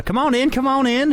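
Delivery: high, eager invitation; high-pitched hospitable undead host; welcoming zombie. Acted. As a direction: usher guests in, voice pitched high. Zombie ushers party inside.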